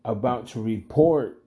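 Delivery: slow, deliberate reveal with long pauses; suspenseful build. Real, not acted. Storyteller setting up the bad luck at check cashing, suspenseful. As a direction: draw out each phrase toward the twist.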